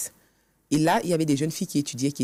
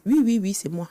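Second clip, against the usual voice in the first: higher, louder hurried insisting; anxious insistence; 6 semitones higher, 4 dB louder than usual. Retold or imitated. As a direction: protest eagerly that it's really you. Insisting to the registrar.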